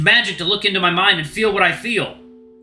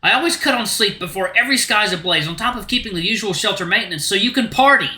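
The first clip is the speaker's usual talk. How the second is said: raised, heated protest; angry outburst; 4 semitones higher than usual. Acted. Luke to Rune about being left out of the pack, angry and raised. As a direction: let the hurt boil over into anger.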